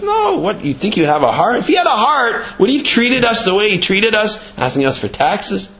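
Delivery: high, protesting rhetorical questions; indignant argument. Retold or imitated. Fox justifies missing heart to lion, indignant. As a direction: argue it upward, as the fox talking his way out.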